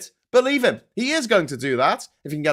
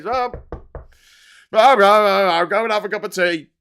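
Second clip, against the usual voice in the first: Speaker of Parliament; 7 dB louder than usual. Acted. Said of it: "the speaker has to say".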